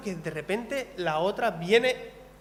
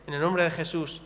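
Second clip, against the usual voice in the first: closing prayer; 2 semitones lower than usual. Acted.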